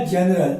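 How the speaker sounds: जनरल opening on ज; soft G pronunciation. Shown as a demonstration. Teacher answering what the spelling becomes, जनरल with a j sound. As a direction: say जनरल with a j, no hard g. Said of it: "ज पढ़ेंगे".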